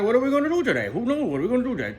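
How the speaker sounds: high, loud mimicked questions; exaggerated high-pitched quote; imitated wondering friends. Acts out friends wondering aloud.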